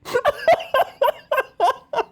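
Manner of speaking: very high cartoon giggle; squeaky giggle. Laugh in squeaky voice.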